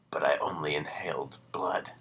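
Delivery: breathy story whisper. A narrator's reading. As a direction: let the line die into a whisper. Dying narrator's last breath.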